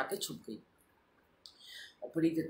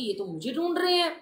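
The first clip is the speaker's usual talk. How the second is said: retold alarm; 10 semitones higher, 5 dB louder than usual. Panics, sees men hunting her.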